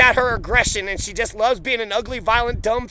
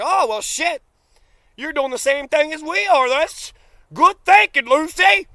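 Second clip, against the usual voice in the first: mock siblings; 5 semitones higher, 4 dB louder than usual. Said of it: "and it's like".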